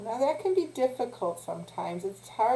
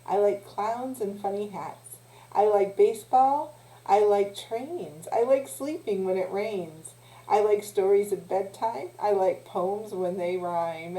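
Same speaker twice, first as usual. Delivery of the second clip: put-on measured, rhythmic children's rhyme; slow, sing-song rhyming verse; poem recital. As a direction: recite line by line with a lilt.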